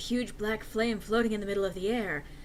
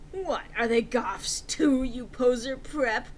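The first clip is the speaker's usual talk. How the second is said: angry; 3 semitones higher, 4 dB louder, slower than usual. Acted. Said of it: "I was angry".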